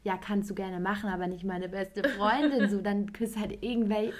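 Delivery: indignant retold rebuke; retold anger. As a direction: let the outrage build as you confront him. Retold angry confrontation with ex.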